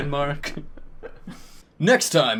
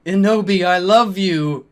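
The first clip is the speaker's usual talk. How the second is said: mock sad shout; 4 semitones higher, 5 dB louder than usual. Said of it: "I shouted sadly".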